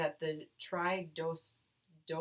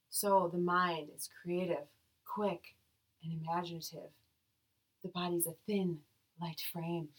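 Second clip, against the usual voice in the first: airy yoga voice. Shown as a demonstration. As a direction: float the words out gently. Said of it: "So I'm gonna get in my airy yoga voice".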